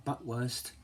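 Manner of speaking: put-on half-hearted German accent; bad German accent. Cook trying a sausage name in a badly faked German accent. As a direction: have another stab at a German accent. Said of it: "I can't do a German accent".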